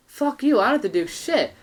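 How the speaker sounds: loud, high indignant retort; imitated defiance. Kid refusing the host's order, imitated angry retort. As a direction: snap back like a defiant kid. Kid defying host, acted quarrel.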